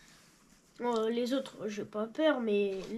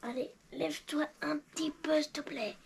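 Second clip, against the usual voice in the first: whispering; 8 dB quieter than usual. Real, not acted. Coaxing the baby doll softly.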